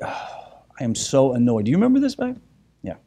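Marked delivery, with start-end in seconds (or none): 0.0-1.7 annoyed. Retold or imitated.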